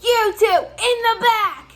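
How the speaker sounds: high shouted order from an angry boss; boss yelling. Retold or imitated. Store director storming in, shouting at two workers. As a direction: bark it like a furious manager. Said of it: "the store director flies back here and goes".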